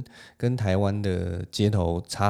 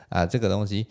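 put-on slow, louder, bouncy young person's いらない; lively youthful tone; 5 dB louder than usual. Imitating how young people casually refuse, lively and slow. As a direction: toss it off like a cheeky teenager. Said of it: "这种很活泼语气去讲这个东西".

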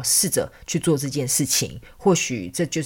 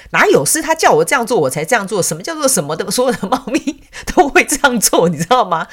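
voicing the cat; 6 semitones higher, 5 dB louder than usual. Cat's retorting voice, retold.

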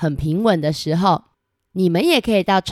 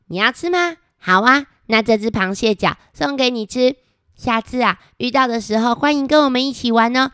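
put-on higher, quick friendly child; cheerful girl voice; 5 semitones higher than usual. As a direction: offer the crab, high and bubbly. (高声活泼的小女孩)

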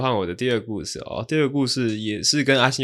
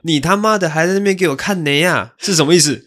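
loud, higher mock telling-off of the driver; loud scolding; 7 semitones higher, 7 dB louder than usual. Passenger retelling how he yelled at the driver, in a loud mock telling-off. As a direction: bark at the slacking driver, playing it up. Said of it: "我就很大声的斥责这个师傅".

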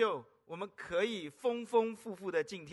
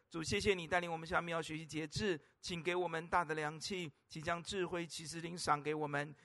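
lower, steady prayer voice; lower, reverent pastor's prayer; 3 semitones lower than usual. Acted. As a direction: pray earnestly before the sermon. Leads a prayer.

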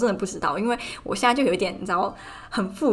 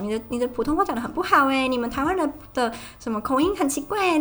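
higher, sing-song mock of a condescending commenter; mocking mainland commenter; 6 semitones higher than usual. Imitating a mainland commenter belittling a Taiwanese accent, condescending. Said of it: "这个中国人就会来说".

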